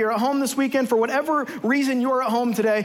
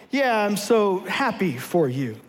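fake happy; 4 semitones lower, slower than usual. Fake congratulations to friend.

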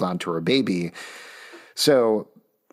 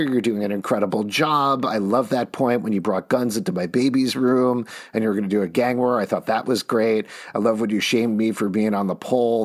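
sarcastic. Acted. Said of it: "I'm being sarcastic here".

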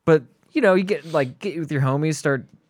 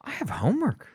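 put-on whiny kid voice; 5 semitones higher than usual. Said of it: "and I was like".

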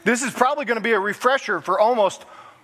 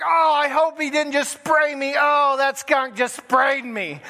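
mock dismay; 4 semitones higher, slower than usual. Acting wife's skunk encounter.

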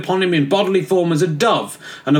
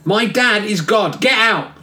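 high, slow sulky retort; high petulant outburst; petulant huff; 6 semitones higher, slower than usual. Acted. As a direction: storm off like a sulking kid. Jesus in a huff.

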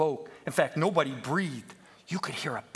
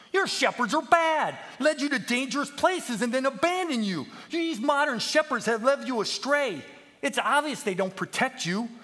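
indignant accusation; 7 semitones higher, 5 dB louder than usual. Acted. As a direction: rail at the sheep about their bad shepherds. Peep indignantly addresses the misled sheep.

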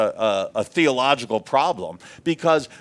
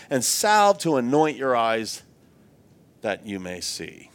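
scripture reading. Acted. Reads scripture aloud.

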